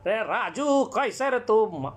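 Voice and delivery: दबी आवाज़ में मराठी लहजा; pressed Marathi voice. Acted. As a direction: squeeze the voice down and go Marathi street tough. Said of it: "तो ये आवाज़ दबा रहा है".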